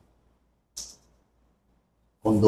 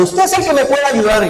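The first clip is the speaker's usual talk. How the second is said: imitated crying client; 13 semitones higher than usual. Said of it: "Me llama llorando".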